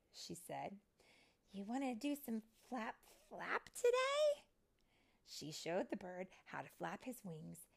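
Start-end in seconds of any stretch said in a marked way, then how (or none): 1.5-4.4 high, encouraging question rising at the end; coaxing fairy. Acted. Fairy coaxing a baby bird to flap, high and eager.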